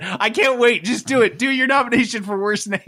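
mock eagerness. Host pushes Peterson to give his nomination, mock eager. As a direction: urge them on, high and impatient. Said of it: "Peter said".

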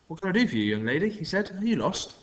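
a strange man feigning polite concern; smarmy stranger. A narrator's reading. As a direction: charm the kids with a fake smile.

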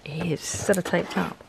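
effortful, straining to open the lid; struggling with a lid. Real, not acted. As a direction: talk while wrestling a taped lid. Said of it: "I can't get the lid open".

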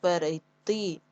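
slow перейти, long final и; syllable-by-syllable перейти, end-stressed. Shown as a demonstration. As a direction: stretch the ти in перейти.

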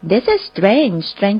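slow, careful teacher demo; slow model phrase. Shown as a demonstration. Teacher modelling the phrase for listeners, slow and clear. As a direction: spell it out slowly for learners. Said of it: "ภาษาอังกฤษเราใช้คำนี้ได้ค่ะ".

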